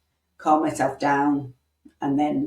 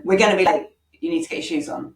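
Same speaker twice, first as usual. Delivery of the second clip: mild demanding parent; faster than usual. Shown as a demonstration. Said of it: "It's better than".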